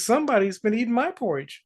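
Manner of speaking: a touch of a high, fast mother-bear voice; Mama Bear. Acted. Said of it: "Mama Bear says".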